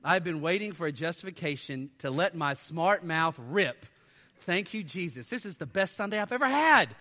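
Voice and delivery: lightly voiced gleeful churchgoer; a hint of a gleeful congregant; mock smart-mouth churchgoer. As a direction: pretend you're thrilled for an excuse. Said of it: "don't walk out of here and go like".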